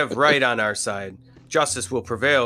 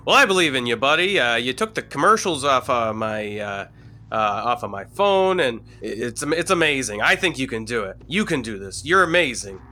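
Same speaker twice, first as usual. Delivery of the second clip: encouraging pep talk; 3 dB louder than usual. Acted. Character cheers on teammate.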